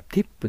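"ティップ" with t-i, not chi; English-style tip. Shown as a demonstration. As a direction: stress "ティップ" as spelled T-I-P. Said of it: "ティーアイピーだからティップである". (TIP だから「ティップ」と発音)

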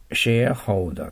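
"シェアホルダー" modelled as a teacher would; pronunciation demo. Shown as a demonstration. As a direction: say "シェアホルダー" as share-holder, clearly for learners. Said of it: "と発音します".

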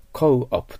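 "コーオプ" as English co-op, with an "ou" glide before "op"; two-part co-op. Shown as a demonstration. Teacher introduces the sign's pronunciation, careful English co-op. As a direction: split "コーオプ" into co and op. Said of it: "これは発音はコーオプといって".

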